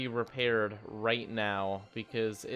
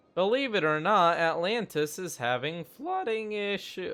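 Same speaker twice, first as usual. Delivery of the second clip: voice giving out, cracking and breaking up high; 8 semitones higher, 4 dB louder than usual. Commenting on flooding getting in the way, voice cracking. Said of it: "more like a voice suicide, honestly, than a voice crack".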